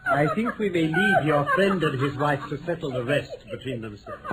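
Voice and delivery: laughing through the words; amused, laughing as he leads her out; chuckling exit line. Acted. Holmes leaving the couple to settle things, laughing.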